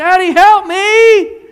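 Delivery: put-on high, slow, loud child's scream.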